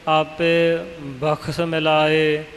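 slow, aspirated kh in ਬਖਸ਼; deliberate model reading, kh not k in ਬਖਸ਼; kh pronunciation. Shown as a demonstration. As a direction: sound out ਬਖਸ਼ with a clear kh before the s. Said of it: "ਖੱਖਾ ਹੀ ਉਚਾਰਨ ਕਰਨਾ ਹੈ".

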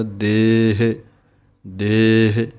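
ਦੇਹ with a long drawn e, separated. Shown as a demonstration. Teacher shows correct ਦੇਹ to students. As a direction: stretch ਦੇਹ without rushing. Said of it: "ਦੱਦੇ ਦੇ ਲਾਂ ਨੂੰ ਲੰਮਾ ਬੋਲਣਾ ਹੈ".

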